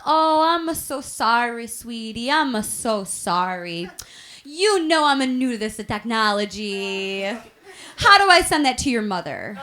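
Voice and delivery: put-on slow, sweet Italian-accented English; mock innocent old grandma, words drawn out; sweet apologetic grandma. Grandma apologizing for her text, sweet and slow. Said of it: "back to being sweet as can be".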